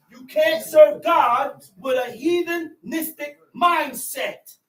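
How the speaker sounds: full-voiced sermon shout; preaching shout.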